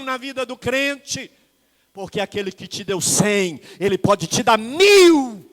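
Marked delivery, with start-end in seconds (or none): 3.8-5.5 preaching loud. Real, not acted. Preaching on prosperity.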